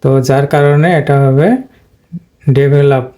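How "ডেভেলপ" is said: ডেভেলপ with weight on the middle ভেল; stress on vel. Shown as a demonstration. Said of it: "এই ভেলের উপরে stress পড়বে". (ডেভেলপ, মাঝের ভেলে জোর)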